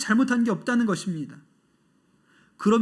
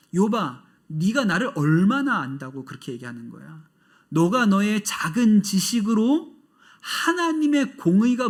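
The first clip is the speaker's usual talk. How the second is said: stern rebuke; 3 semitones higher than usual. Retold or imitated. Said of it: "꾸짖으시면서".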